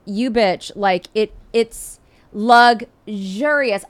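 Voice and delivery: ordinary talk, nothing marked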